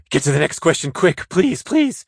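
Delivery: high, hurried mock plea; mock pleading. Host begging to move on after his accent attempt, mock pleading. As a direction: beg in mock desperation, pitch shooting up on the pleases.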